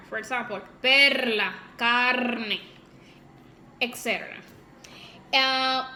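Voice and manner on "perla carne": southern accent with a strong r in "perla, carne"; southern Dominican accent. Shown as a demonstration. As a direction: hit the r hard in "perla, carne", southern style. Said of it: "they talk with R".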